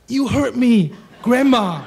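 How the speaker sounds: high-pitched acted protest; retold shout back. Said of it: "I shout back".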